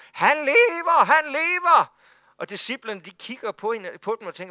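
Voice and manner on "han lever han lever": high, loud, overjoyed cries; excited shouting. Retold or imitated. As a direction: shout the news bursting through the door. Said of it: "råbende og skrigende og grædende". (højt, begejstret råb)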